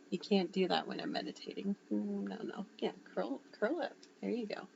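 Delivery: soft, quiet coaxing of a cat; gentle pet talk. Real, not acted. Owner telling a cat to curl up while filming, softly coaxing. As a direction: settle a pet down in a hushed voice.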